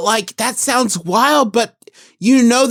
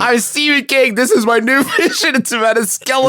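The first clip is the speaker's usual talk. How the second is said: arrogant author; 4 semitones higher than usual. Acted. Playing arrogant Stephen King.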